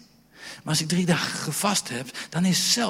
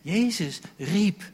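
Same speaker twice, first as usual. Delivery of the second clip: slow, high call; 5 semitones higher, slower than usual. Shown as a demonstration. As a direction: lift the voice and call. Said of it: "Jezus fluisterde".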